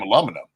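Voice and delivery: aluminum as "a-LUM-uh-num"; habitual mispronunciation. Shown as a demonstration. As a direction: say aluminum with a short "lum", not "loo". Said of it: "I always said".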